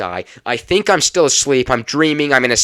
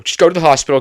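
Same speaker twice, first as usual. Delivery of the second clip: louder and higher, frantic repeat; panicked mom; 5 semitones higher, 7 dB louder, faster than usual. Retold or imitated. Mother on the phone yelling at daughter to go, frantic. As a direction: push it up like a worried mother losing it. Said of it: "But she's freaking out".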